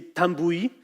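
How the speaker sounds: Tambouille said the French way, tam-BOO-ee; bad French pronunciation. Shown as a demonstration. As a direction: Tambouille with a self-conscious French accent. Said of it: "sorry for my bad French pronunciation".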